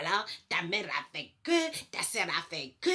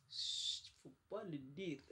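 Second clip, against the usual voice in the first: whispered secret, softer; 3 semitones lower, 11 dB quieter, slower than usual. Real, not acted. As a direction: hush it like a secret. Confie un secret en chuchotant. (en chuchotant)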